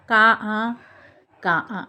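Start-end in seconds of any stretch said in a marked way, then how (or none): 0.1-0.6 কা held, then its আ sounded separately; vowel sounded out. Shown as a demonstration. Teacher showing the আ heard in কা, sounded out. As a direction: break কা open to show the long আ. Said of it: "তখন উচ্চারণ করছি আ".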